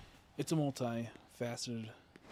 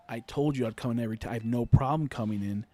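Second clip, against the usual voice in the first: retold protest; 7 dB louder than usual. Retold argument with his boss.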